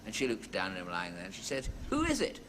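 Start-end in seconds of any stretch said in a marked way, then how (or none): 1.9-2.4 put-on high, quavering old lady. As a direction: ask it like a puzzled old lady.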